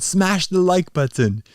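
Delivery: light YouTuber hype, pitched a bit up; mild YouTuber outro impression. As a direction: toss off a quick YouTuber catchphrase. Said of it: "How do those YouTubers say it?".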